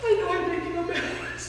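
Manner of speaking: laughing beast. Acted.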